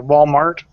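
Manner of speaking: "Walmart" ending in a K; mispronounced Walmart. Retold or imitated. Imitating grandmother's word, "Walmart" with a K. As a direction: say "Walmart" as Wal-mark. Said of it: "intentionally mispronounced everything".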